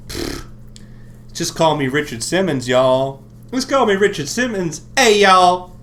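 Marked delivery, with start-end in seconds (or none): 1.3-5.8 loud hype. Pretend.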